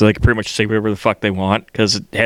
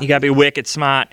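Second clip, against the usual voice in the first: put-on Boston accent. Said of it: "talking like she's from Boston".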